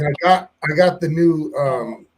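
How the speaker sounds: breathing heavily into the mic; heavy breathing. Real, not acted. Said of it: "sorry about the breathing".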